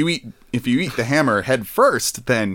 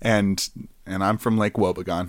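Garrison Keillor impression; 4 semitones lower, 4 dB quieter than usual. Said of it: "Garrison Keillor".

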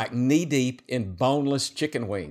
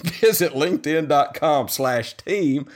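laughing ad read; 3 semitones higher, slower than usual. Real, not acted.

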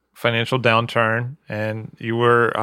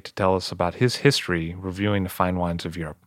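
scripted host introduction; podcast show intro. Acted. Host presenting wine critic Josh Reynolds, show intro.

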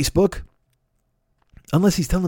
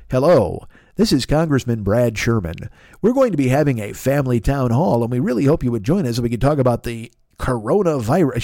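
congressman voicemail; 4 semitones lower than usual. Retold or imitated. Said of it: "it goes".

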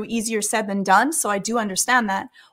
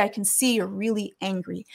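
softer, calm and steady, no edge; 3 semitones lower, 6 dB quieter than usual. Shown as a demonstration. Counsellor calmly naming the anger of an upset visitor, softer. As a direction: meet an angry person with a calm voice. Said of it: "my voice is calm".

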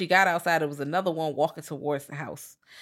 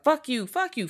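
mock angry bickering; 9 semitones higher than usual. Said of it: "they just like".

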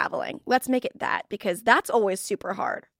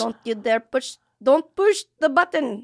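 put-on Filipino accent; 2 semitones higher than usual. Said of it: "my Filipino accent".

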